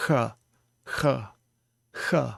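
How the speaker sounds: "h" fricativo, ar raspando; fricative kh. Shown as a demonstration. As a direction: sopre o "h" sem fechar. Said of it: "that would be the fricative sound".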